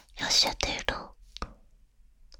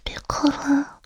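tender soothing. Acted. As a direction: gently coax someone out of crying. Comforting a crying loved one.

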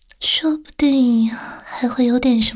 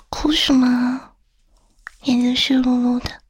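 tender soothing. Acted. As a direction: gently coax someone out of crying. Comforting a crying loved one.

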